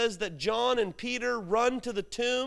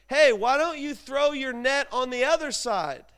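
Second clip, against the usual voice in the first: mild raised call across water; 3 semitones higher, 4 dB louder than usual. Acted. Jesus on shore to fishermen in boat, calling out. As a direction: hail the boat, lightly acted.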